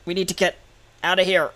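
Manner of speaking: out of breath and urgent; panting. Acted. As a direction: gasp the words out, panting. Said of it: "It's, like, panting".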